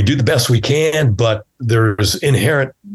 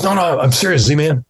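voiced friend insisting; 5 semitones higher than usual.

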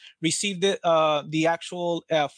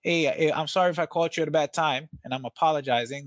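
apologetic. Shown as a demonstration. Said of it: "get low on it and just kinda deflect".

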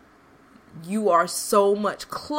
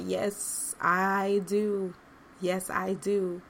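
small inner voice; 5 dB quieter, slower than usual. Retold or imitated. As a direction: let the quiet inner voice answer softly. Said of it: "in the tiny recesses of my spirit, the voice said".

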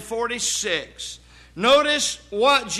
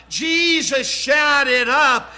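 "up" punched after a slow "shouted"; slow, emphatic "shouted up"; stress on up; 2 semitones higher, 3 dB louder, slower than usual. Shown as a demonstration. Preacher correcting how Jesus cried on the cross, stress on "up". Contrast of up with out.

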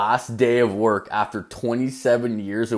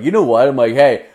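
mock mad; 2 semitones higher, 7 dB louder, faster than usual. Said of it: "So I got mad".

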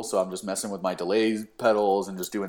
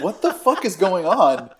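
high, slow, louder retold outburst; exasperated disbelief; 8 semitones higher, 6 dB louder than usual. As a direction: stretch out the baffled question. Exasperated at bandmates in dream.

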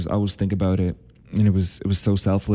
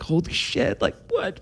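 much higher, breaking into a laugh; relieved laughing disbelief; 11 semitones higher, 5 dB quieter than usual. Retold or imitated. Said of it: "we're, like, crying".

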